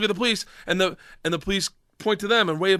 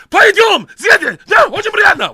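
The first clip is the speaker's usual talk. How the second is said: high, loud mock Russian babble; made-up Russian; 13 semitones higher, 9 dB louder than usual. Student answering the cop, loud mock Russian. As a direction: shout improvised Russian. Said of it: "I'm making up words right now".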